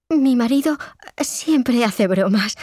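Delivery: high, slowing, uneasy mother; hesitant, drawn-out nervous reassurance; somewhat nervous. A narrator's reading. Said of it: "la madre de Inés algo nerviosa".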